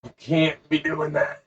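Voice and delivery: high, slow, whiny lecturing voice; a mock-pious scold getting shrill at the end; hammed-up prissy monk wagging a finger; preachy scolding monk. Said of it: "Dave would be like".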